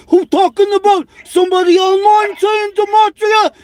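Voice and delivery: high shouting caricature; hammed-up screeching rant; shouted mock impression. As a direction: yell it like a frantic crank. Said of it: "He's like".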